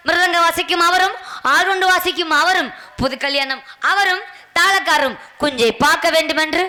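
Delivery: stage king declaiming formally; measured theatrical oratory; mock-royal proclamation. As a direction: proclaim it to the whole audience, phrase by phrase. King's mock oration pointing out musicians.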